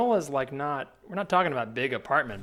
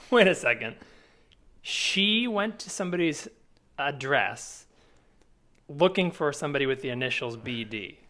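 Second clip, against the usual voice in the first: surprised; 3 semitones higher, 8 dB louder than usual. Real, not acted. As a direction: jump in, incredulous and loud. Reacting to the odd ad.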